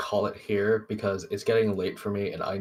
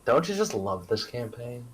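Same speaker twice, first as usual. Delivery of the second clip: mock-enthusiastic sarcastic question; 3 semitones higher than usual. Real, not acted. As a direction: gush with dry sarcasm. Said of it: "I said that with sarcasm".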